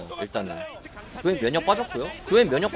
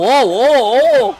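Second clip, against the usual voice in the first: long, loud, stretched-out cheer; drawn-out wow; 5 semitones higher, 9 dB louder, much slower than usual. Real, not acted. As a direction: hold each wow in amazement. Caster reacting to the teamfight.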